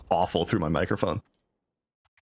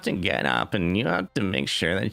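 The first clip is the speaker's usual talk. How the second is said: vocal fry; 3 semitones lower, slower than usual. Retold or imitated. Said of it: "Vocal fry".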